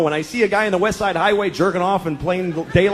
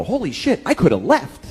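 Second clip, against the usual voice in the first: mock realization; 3 semitones higher than usual. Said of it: "you go".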